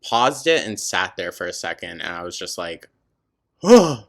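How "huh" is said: stunned huh. Retold or imitated. Stunned reaction to TikTok.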